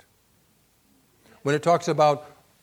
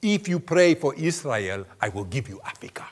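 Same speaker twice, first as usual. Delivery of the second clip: serious tone; 4 dB louder than usual. Retold or imitated. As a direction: make it weighty and serious. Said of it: "in a very serious tone".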